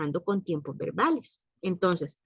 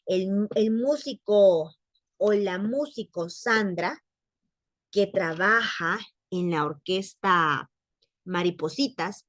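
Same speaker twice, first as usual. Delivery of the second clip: slow careful example. Shown as a demonstration. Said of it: "No es lo mismo decir".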